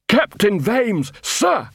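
a lightly voiced dim troll, eager to please; troll Detritus. Troll Detritus reporting to Vimes.

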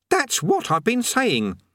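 put-on high, slow, strained-patience boy voice; slow and strained, young Eric. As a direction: hold your patience through your teeth as Eric. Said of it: "with a strained patience".

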